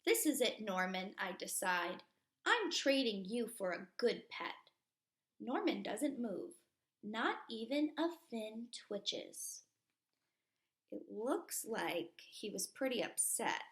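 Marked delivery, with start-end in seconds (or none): 0.0-9.6 put-on lively read-aloud for kids; storybook reading. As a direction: read it to a class like a picture book. Reading picture book aloud.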